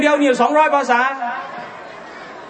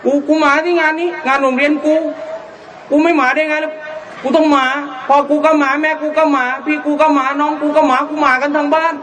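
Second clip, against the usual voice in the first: higher, twangy central-rural Thai; Suphanburi twang; 3 semitones higher than usual. Retold or imitated. Preacher imitating old-capital folk meeting at a fair, in a Suphanburi twang. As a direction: rattle it off like a brash Suphan local. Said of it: "ไอ้นี่มันก็จะเหน่อ".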